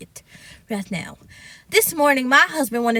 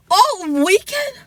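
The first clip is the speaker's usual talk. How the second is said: high, drawn-out disbelieving question; incredulous echo; 8 semitones higher, 4 dB louder, slower than usual. Acted. Reader reacting to the wife's story, incredulous echo. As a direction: repeat it slowly, pitched way up in disbelief.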